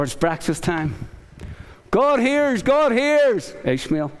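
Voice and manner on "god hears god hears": mother calling out. Retold or imitated. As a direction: sing out the name like a mother calling her boy. Mother calling son to breakfast.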